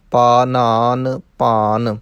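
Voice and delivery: slow, drawn-out chanting of word pairs; slow recitation demo. Shown as a demonstration. Teacher recites Gurbani word pairs slowly for students. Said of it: "ਨਾਣੇ ਨਹੀਂ ਲਾਉਣੇ".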